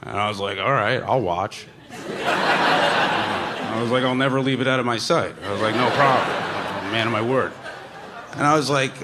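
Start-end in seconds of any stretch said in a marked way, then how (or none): 0.6-7.5 laughing through a mock-solemn vow; laughing promise. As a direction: choke back laughter while promising. Promising Lorne to watch weed.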